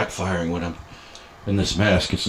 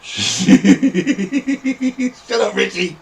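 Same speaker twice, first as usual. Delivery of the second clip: higher-pitched scolding yell; 12 semitones higher, 6 dB louder, slower than usual. Pretend. Telling Richie to shut up, scolding. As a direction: tell him off through the laughs.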